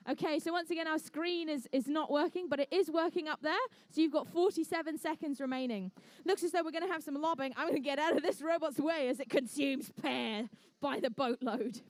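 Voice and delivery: brisk, upbeat match commentary; live play-by-play. Acted. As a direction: call every ball into the tower.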